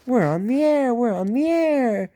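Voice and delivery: high, chugging little engine chant; puffing Peter Sam. A narrator's reading. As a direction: puff it out high and proud. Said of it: "chanted Peter Sam".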